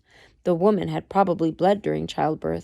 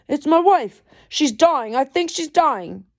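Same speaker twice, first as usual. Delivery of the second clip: put-on weak Irish accent, higher and louder pleading; attempted Irish accent; 8 semitones higher, 4 dB louder than usual. Reader retries the pleading husband in a faint Irish accent. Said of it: "That wasn't very Irish".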